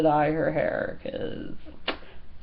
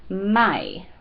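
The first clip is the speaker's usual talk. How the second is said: "Mai" with a Portuguese accent. Shown as a demonstration. Vlogger teaching the Portuguese word for mom, accented "Mai". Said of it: "you have to say it with the accent".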